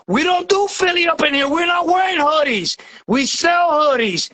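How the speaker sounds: real overexcited rant. Real, not acted. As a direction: get carried away hyping your team. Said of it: "I'm going overexcited here".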